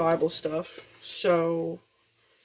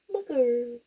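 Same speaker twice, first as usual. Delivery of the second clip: usual speaking voice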